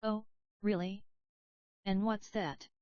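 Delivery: a hint of sly interest in the question; intrigued. Ghostface probing Sad Boy's hint, lightly intrigued. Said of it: "Ghostface's tone shifted to one of intrigue".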